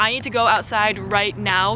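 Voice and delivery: ordinary talk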